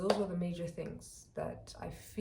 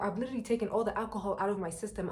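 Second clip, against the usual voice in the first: insistent protest; 4 semitones higher, 4 dB louder than usual. Retold or imitated. Arguing with bouncer at door.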